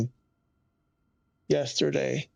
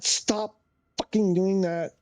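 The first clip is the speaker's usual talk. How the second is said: annoyed outburst; 4 semitones higher than usual. Real, not acted. Streamer cursing the glitching sim, annoyed and higher. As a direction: snap at the glitching software. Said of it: "I'm getting really annoyed today".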